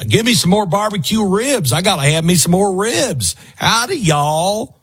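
high-pitched mock Texan drawl; hammed-up Texas good ol' boy, pitched high; put-on Texas drawl. Mocking Jimmy gone all Texan, exaggerated Texas drawl. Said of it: "where did you get the drawl from".

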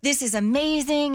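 put-on high, gushing old-friend reunion voice; bubbly high mock gush; gushing excitement. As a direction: squeal it like you've found a long-lost friend. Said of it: "And she's like".

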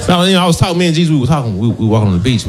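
stoned dude voice. Retold or imitated. Stoned Jesus story voice.

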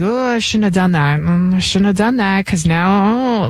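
regretful groan to oneself; slow, moaning second thoughts, acted out; mock regret. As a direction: kick yourself in a mock-rueful mumble. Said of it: "I regret it".

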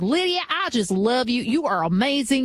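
imitated gushing Southern caller; thick Southern accent. Admiring caller to the radio host, imitated Southern accent. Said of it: "with the really thick Southern accent".

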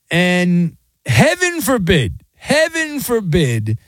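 slow, rising mock-scandalized heaven forbid; mock horror. Host mocking outrage over the ref, slow mock horror. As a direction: clutch the pearls slowly.

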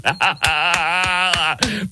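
high cackling laugh; real gleeful cackle. Real, not acted. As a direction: burst out laughing at the absurdity. Host mocks the protest scene.

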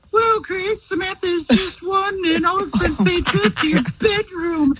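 high, bright announcer voice; game show announcer. Acted. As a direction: sell the prize like a TV announcer. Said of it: "Johnny, tell her what she's won".

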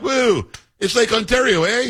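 high, slow mock Canadian cheer, "Lake Ontario" drawn out; hammed-up Canadian accent. Radio host mocks Ontario premier's sign, in a high hammed-up Canadian accent. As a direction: lampoon a Canadian premier with a big "Woo" and "eh". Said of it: "that's a spot-on impersonation of this guy Ford".

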